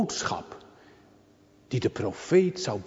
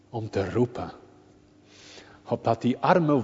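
ordinary talk

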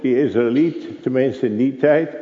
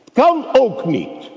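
much higher and louder, stressing kan; loud repeat; 14 semitones higher, 4 dB louder than usual. Acted. Preacher driving the point home to the congregation, loud. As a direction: cry it out to the hall.

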